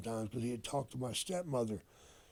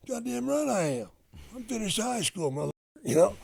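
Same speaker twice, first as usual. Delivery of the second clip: indignant retort; 11 semitones higher, 7 dB louder than usual. Retold or imitated. Indignant son answering dad.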